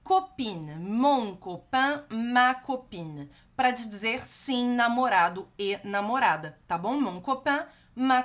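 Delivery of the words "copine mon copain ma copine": slow, careful French model; slow model pronunciation. Shown as a demonstration. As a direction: spell it out slowly for the learner. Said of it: "a gente tem copain". (pronúncia francesa lenta e cuidadosa)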